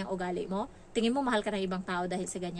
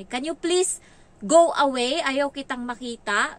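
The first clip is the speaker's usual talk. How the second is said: imitating the child; 4 semitones higher, 8 dB louder, slower than usual. Child tells mother go away.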